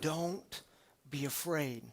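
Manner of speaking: soft, hushed words; barely above a breath, gently; the still small voice reassures the listener. Acted. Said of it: "still small voice saying to you".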